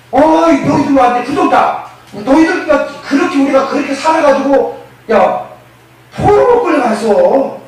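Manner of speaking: mock scolding. People who don't know the gospel berating the exiles, mock scolding. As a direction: exclaim as if taking others to task.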